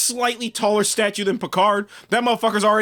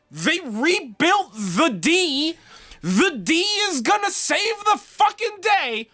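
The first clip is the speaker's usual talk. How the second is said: mock-epic hype, much higher and slow at first; 8 semitones higher, slower than usual. Fan mocking the show's big ship moment, hammed-up hype. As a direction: sell it like a trailer, tongue in cheek.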